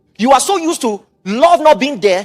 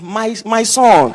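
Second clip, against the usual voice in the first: slow tender mother; much slower than usual. Retold or imitated. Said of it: "the mother said".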